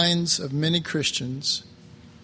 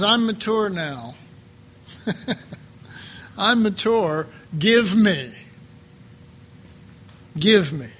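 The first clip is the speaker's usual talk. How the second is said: mock bratty son, higher and louder; childish demand, higher and louder; 4 semitones higher, 4 dB louder than usual. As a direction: play the impatient son demanding his share. Prodigal son demanding his share.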